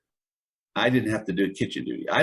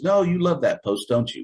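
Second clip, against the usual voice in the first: mock drill sergeant; 5 semitones higher than usual. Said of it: "And he says".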